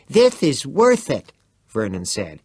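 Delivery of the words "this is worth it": eager insistence. A narrator's reading. Vern eager.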